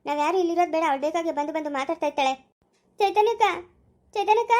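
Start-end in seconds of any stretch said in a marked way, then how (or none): 3.0-4.5 high, rising wail of a name; pleading, tearful call; crying out. Acted. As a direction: call after someone tearfully. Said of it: "ಅಳ್ಬೇಡ, ಸುಮ್ನೆ ಇರು ಸ್ನೇಹ".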